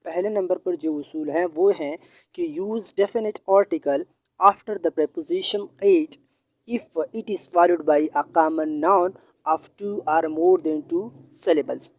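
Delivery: each word of the rule spelt out slowly; slow, deliberate classroom dictation. Shown as a demonstration. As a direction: dictate the rule so students can write it down. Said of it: "teacher dictates rule slowly".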